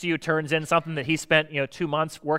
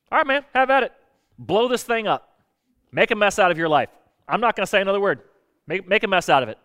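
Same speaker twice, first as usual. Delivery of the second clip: exasperated giving up; 4 semitones higher than usual. Retold or imitated. Giving up on stubborn friend.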